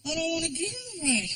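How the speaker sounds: put-on high, soft, sulky boy; sulky kid. Stepson refusing rides at Disneyland, high sulky voice. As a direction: mumble it like a stubborn kid. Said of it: "Frankie answering".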